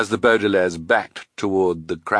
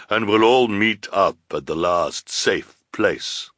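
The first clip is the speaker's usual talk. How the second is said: lightly voiced woman in command; ordering villainess; 2 semitones higher, 3 dB louder than usual. A narrator's reading. Woman with no beard to Olaf, ordering. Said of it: "ordered the woman with hair".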